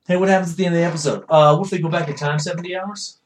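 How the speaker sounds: rushed, airy mock writers'-room pitch. Mocking the writers who pitched the ending, fast and breezy. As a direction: toss the idea off quickly and carelessly. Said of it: "It's just like".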